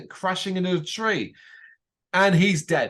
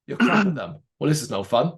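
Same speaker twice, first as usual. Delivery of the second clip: bored disinterest. Retold or imitated. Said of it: "His immediate switch to disinterest".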